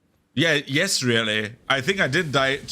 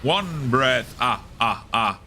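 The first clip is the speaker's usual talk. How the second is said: Count counting; slower than usual. Pretend. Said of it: "making fun of Count Count from Sesame Street".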